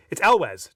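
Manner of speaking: Elwes said as EL-wez, firmly; pronunciation of Elwes. Shown as a demonstration. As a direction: show how Elwes is said, EL-wez. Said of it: "So there's the pronunciation".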